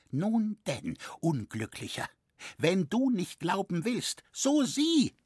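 high, horrified outburst; blurted in horror. A narrator's reading. The carver blurts out his warning in horror. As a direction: force it out in shock. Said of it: "stieß der Bildschnitzer hervor".

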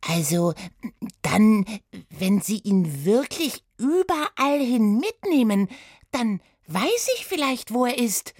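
hohe, aufgeregte Mädchenstimme; verkünde deine Idee aufgeregt; Oda, aufgeregt. Acted. (Oda hat eine Idee, hoch und aufgeregt)

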